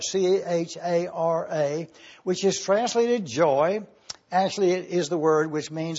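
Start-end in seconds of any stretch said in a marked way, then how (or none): 0.0-1.9 spelling C H A R A slowly, letter by letter; spelled out. Shown as a demonstration. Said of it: "the Greek word chara".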